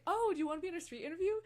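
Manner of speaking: fast, loud and high, all excited; hyped fan blurting out her ask; rushed eager question. Retold or imitated. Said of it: "I was like".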